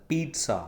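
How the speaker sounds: "पिज़्ज़ा" said peet-sa, with a ts sound; correct pizza. Shown as a demonstration. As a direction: say "पिज़्ज़ा" as peetsa, not peeza. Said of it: "सा आपको बोलना होता है". ("पिज़्ज़ा" को पीट्सा बोलें)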